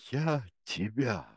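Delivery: understated frenzied shout; frenzied threat. A narrator's reading. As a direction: spit out a vengeful threat. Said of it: "неистово кричал Кенси".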